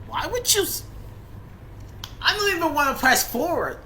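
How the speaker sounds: high, loud indignant shouting; outraged yelling. Real, not acted. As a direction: yell it in disbelief. Outraged at story line.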